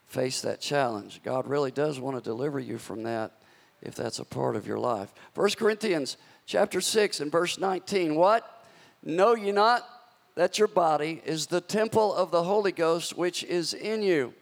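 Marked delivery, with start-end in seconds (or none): 5.3-14.3 rising, emphatic reading of the verse; scripture reading. Acted. Preacher reads scripture to church, emphatic. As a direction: proclaim the verse to the congregation.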